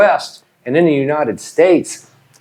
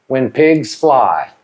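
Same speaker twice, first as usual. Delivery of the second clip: slow; slower than usual. Shown as a demonstration. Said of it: "teacher models idiom slowly".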